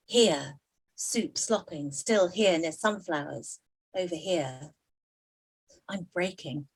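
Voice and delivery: a light mock newsreader rhythm, punching each here; poetry reading. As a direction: play the broken headlines like a fractured bulletin. Poet reads her wordplay poem.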